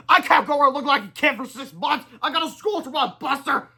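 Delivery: high indignant complaint; high annoyed protest; indignant rant. Acted. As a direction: grumble like a bossy boss. Kid-principal complains angrily.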